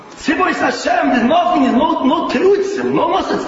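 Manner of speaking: preacher rallying his listeners, fired up and emphatic; fired-up insistence. Real, not acted. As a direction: drive it home like a drill sergeant. Preacher driving home army discipline.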